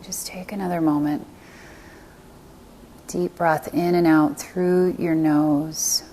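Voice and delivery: calm meditation guide with long pauses; guided meditation. Acted. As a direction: guide them gently into stillness, leaving space between phrases.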